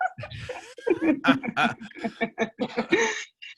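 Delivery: bright burst of laughter; real delighted laugh. Real, not acted. Amused after Colombia remark.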